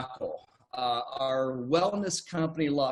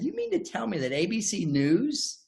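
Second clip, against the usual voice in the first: retold sarcastic skepticism. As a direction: scoff as if you don't buy it. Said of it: "I said this sarcastically".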